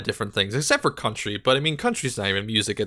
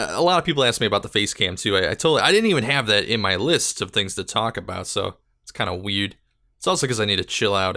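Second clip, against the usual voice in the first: rushed, rapid-fire rambling; speeding through the words; talking fast; 2 semitones lower than usual. Real, not acted. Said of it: "I'm, like, speaking at a million words a second".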